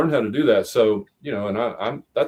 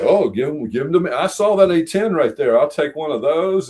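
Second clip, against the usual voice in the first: eager grabbing; 4 semitones higher than usual. Retold or imitated. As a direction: kid in a candy store, pointing at each one. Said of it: "I was like".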